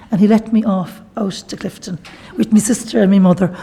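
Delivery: light laugh through the words; happy laughing recollection. Real, not acted. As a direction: chuckle as you tell it, delighted. Laughs telling of doctor letting her go.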